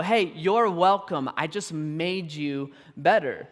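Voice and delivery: slow, lightly smug boast; mock smugness. Winner claims credit for a rival's race, mock smugness. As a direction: take imagined credit, stretching the words out.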